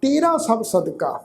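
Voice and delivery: slow, measured Gurbani recitation; scripture recitation. Acted. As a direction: recite each phrase deliberately, with pauses and drawn-out vowels. Recites scripture between explanations.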